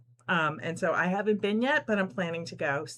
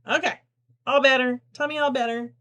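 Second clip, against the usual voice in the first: put-on higher, louder baby talk; babying the toy; 6 semitones higher, 7 dB louder than usual. Host soothing the mended shark, higher baby talk. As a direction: comfort the shark like a hurt child.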